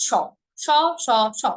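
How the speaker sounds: স said as sh, each one apart; separate letter sound. Shown as a demonstration. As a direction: repeat স as a clear sh syllable. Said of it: "তিনটা স এর উচ্চারণ". (আলাদাভাবে শ-এর মতো স)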